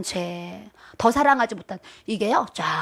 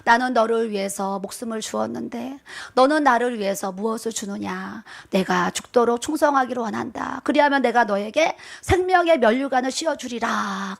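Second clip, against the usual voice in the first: voice of the Lord. Retold or imitated. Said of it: "저에게 말씀하시는 거예요".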